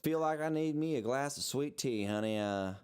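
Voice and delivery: lightly voiced Southern plantation gent; hesitant attempt at a Southern drawl; hint of a Colonel Sanders-style Southern drawl. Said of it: "start with your best Southern drawl".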